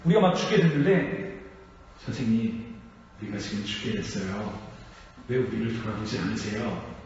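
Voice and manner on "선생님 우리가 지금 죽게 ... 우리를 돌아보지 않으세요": low, soft and unhurried plea for help; quiet, subdued demonstration of a plea; implausibly calm plea. Shown as a demonstration. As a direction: ask for rescue as if nothing were urgent. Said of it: "이렇게 얘기를 안 하겠죠".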